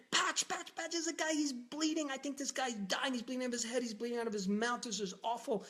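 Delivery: high, frantic rush of alarm; breathless panic calling the doctor for help; panicked. Retold or imitated. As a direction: blurt it out in a panic, pitch way up.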